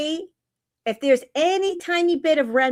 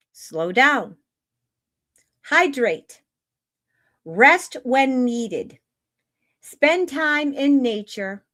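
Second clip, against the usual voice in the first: slow, deliberate reading with long pauses; measured spiritual reading. Acted. Host reading an energy update to live chat, measured spiritual reading. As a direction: read it like a guidance message, phrase by phrase.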